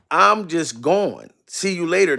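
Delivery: normal talking voice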